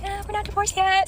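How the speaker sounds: high, slow, offhand shrug; dismissive. Retold or imitated. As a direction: brush it off lazily. Mocking her own deadpan reply.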